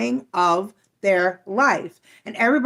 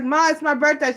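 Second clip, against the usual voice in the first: put-on whiny child plea; 7 semitones higher than usual. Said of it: "I'd be like".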